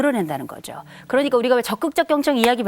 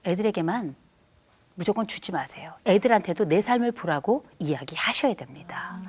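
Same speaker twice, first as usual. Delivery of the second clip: unvoiced, hushed advice; whisper; 3 semitones lower, 6 dB quieter than usual. Real, not acted. Speaker whispering advice to parents in the audience. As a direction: say it under your breath like a secret.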